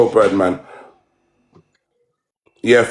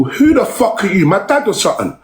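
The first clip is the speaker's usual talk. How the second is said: raised, high-pitched outrage, barely holding back; real angry rant; 8 semitones higher than usual. Real, not acted. Streamer rounding on a rival who came into his live, pitched high in real anger. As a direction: fire it back at him, voice climbing high.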